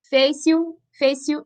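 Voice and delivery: fez-se o run together as fez-sio; pronounced joined. Shown as a demonstration. Teacher showing students why it can't be split, pronounced joined. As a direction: blend the final e of fez-se into the o, no break. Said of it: "Tá vendo que eu pronuncio junto?".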